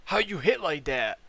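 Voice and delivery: high, stretched exclamation falling away; mock astonishment. Newbie to bro after coughing on a hit, astonished. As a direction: imitate a floored guy, pitch leaping up.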